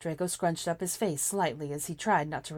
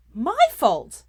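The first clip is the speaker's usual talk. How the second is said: much higher and louder yell; yelled back; 8 semitones higher, 13 dB louder than usual. A narrator's reading. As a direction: hurl it back indignantly. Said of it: "Hermione yelled back".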